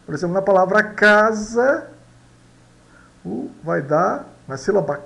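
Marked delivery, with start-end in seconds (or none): 0.8-1.9 casa with a hard K at the start; "casa" said loud and drawn out as a model word; Spanish pronunciation model. Shown as a demonstration. Teacher showing learners that C sounds like K, Spanish pronunciation model. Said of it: "pronúncia de K".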